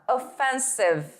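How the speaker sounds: offensive spoken slowly and clearly in English; slow model word. Shown as a demonstration. Teacher modelling offensive slowly for students to repeat. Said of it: "repitam comigo".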